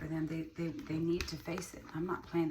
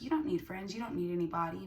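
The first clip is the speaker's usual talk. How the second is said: voicing ChatGPT; 2 semitones higher than usual. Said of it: "Chat G P T saying".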